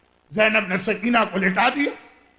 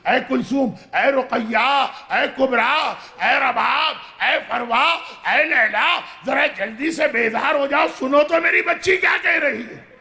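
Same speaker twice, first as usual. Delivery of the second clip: Zainab calls each woman's name, rising to a raised urgent call. Acted. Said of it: "آواز دی". (زینب کا بیبیوں کو بلند آواز سے پکارنا)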